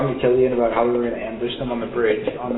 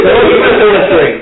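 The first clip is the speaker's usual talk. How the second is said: laughing; 7 semitones higher, 9 dB louder than usual. Retold or imitated. Laughing echo of scolding.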